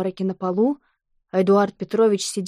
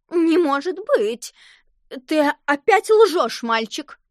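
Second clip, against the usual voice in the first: higher, slow, louder scolding; a hint of a stern schoolteacher; scolding teacher; 5 semitones higher, 3 dB louder, slower than usual. A narrator's reading. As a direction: accuse the boy, drawn out.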